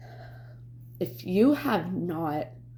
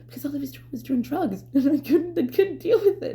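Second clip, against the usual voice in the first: pitched way up, a laugh breaking in; high, worked-up exasperation; 9 semitones higher, 4 dB louder than usual. Real, not acted. Vlogger explaining why she couldn't deal with it, high and exasperated. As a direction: get louder and higher as it becomes too much.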